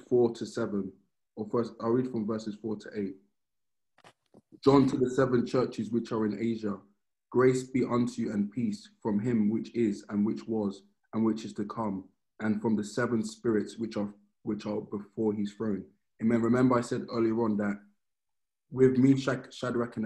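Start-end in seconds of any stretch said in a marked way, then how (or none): 4.6-15.8 measured Bible reading voice; solemn reading of scripture. Acted. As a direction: read it out like holy text. Reads Revelation aloud.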